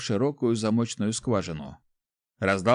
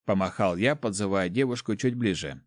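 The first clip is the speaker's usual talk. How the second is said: ordinary delivery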